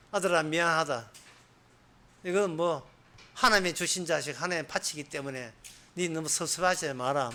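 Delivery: soft, hushed regret; a hint of a sorrowful father; quiet inner apology. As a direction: say it under your breath, sorry to your son. Abraham's inner apology to son.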